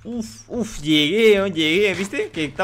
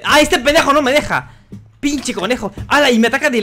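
frustrated yell; 8 semitones higher, 7 dB louder than usual. Real, not acted. Frustrado con el enemigo.

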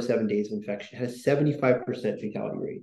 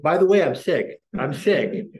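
whiny announcement; 4 semitones higher, 4 dB louder, slower than usual. Retold or imitated. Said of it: "people like me who's like".

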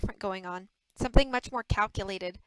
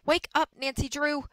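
higher-pitched mock announcer; mimicking the announcer; 6 semitones higher, 4 dB louder than usual. A narrator's reading. Bess waking Nancy, mock announcer voice. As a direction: lightly parody a TV presenter. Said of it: "Bess said, mimicking the announcer".

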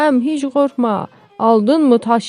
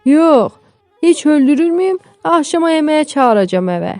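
high, mock-indignant comeback; sarcastic retort; 8 semitones higher, 3 dB louder than usual. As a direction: answer the wife with raised, exaggerated irony. Husband retorts sarcastically to wife.

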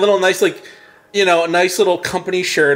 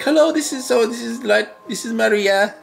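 much higher, sweet phone greeting; saleswoman on the phone; 7 semitones higher than usual. Retold or imitated. Saleswoman calls her office, high sugary greeting. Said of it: "She's like".

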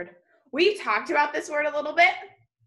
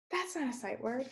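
surprised gasp; 11 dB quieter than usual. Real, not acted.

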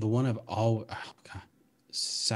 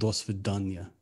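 lightly attempted Russian accent; Russian warm-up phrase; 2 semitones lower than usual. Shown as a demonstration. Player finding the accent through a stock phrase, Russian accent. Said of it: "I usually have to start with".

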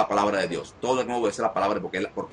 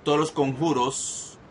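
higher-pitched, drawn-out proclamation; solemn raised-voice renouncing; exorcism declaration; 4 semitones higher than usual. Real, not acted. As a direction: declare each item firmly, with pauses between phrases. Cancels curses in exorcism.

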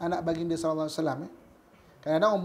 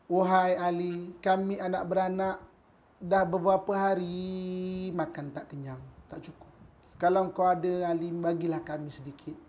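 slow, drawn-out plea on a level pitch; slow, weary appeal for help; pleading widow; slower than usual. Acted. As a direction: beg wearily for a share, stretching the phrases. Needy widow begs Ali for food.

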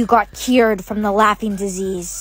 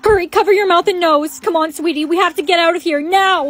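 higher, urgent warning; urgent alarm; 5 semitones higher than usual. Acted. Mother rushing child away from danger, urgent. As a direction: hurry the child out.

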